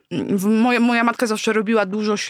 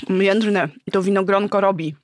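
speaking with a mouthful; words round a bite of food; chewing while talking. Real, not acted. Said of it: "Zaczynamy od śledzi węgierskich".

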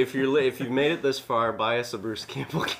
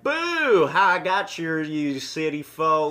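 loud high "Boo!" then a drawn-out taunt; prankster's scare; 5 semitones higher, 4 dB louder, slower than usual. Retold or imitated. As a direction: jump out and spook the city folk. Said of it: "he's like".

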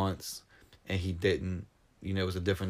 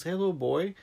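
soldier greeting; 9 semitones higher than usual. Retold or imitated. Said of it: "the soldier comes out and says".

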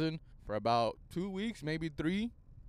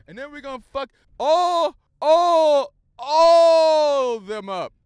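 higher, much louder, stretched yell; hype shout; 11 semitones higher, 15 dB louder, slower than usual. Pretend. Hyping his team against rivals, a stretched loud yell. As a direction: roar it out.

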